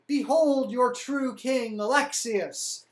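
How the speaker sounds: slow, loud royal herald; slow ceremonial fanfare voice; grand proclamation. Retold or imitated. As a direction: announce the rightful king with pomp. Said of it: "and say".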